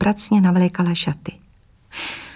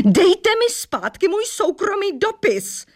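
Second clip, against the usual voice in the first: yelling; 12 semitones higher, slower than usual. A narrator's reading. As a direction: demand the letter back at full voice. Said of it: "křičela slečna Mosová". (vysoký, hlasitý křik)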